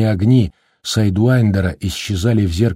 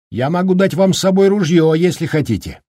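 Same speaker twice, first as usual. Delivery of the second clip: голос Даркина; 9 semitones higher than usual. Acted.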